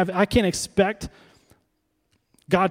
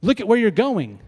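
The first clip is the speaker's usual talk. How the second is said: upset instructor; 5 semitones higher than usual. Retold or imitated. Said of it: "he was kind of upset with me".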